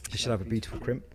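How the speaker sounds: talking with hiccups. Real, not acted. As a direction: hiccup catching the words. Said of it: "oh, I've got the hiccups".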